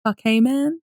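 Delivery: Fakeman as "fuck hey man", run together; mispronounced name. Friend imitating how the name was misread. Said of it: "How was he pronouncing it while he read it?".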